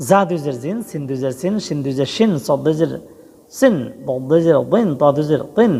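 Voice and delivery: letter-by-letter drill landing on "শিন", "বিন", "তিন" with an -in ending; zer tanween demo. Shown as a demonstration. Teacher shows learners the double zer, pronunciation demo. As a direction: spell each letter, then sound the "-in" ending, as in "জিন", "সিন". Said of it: "জের বলছি".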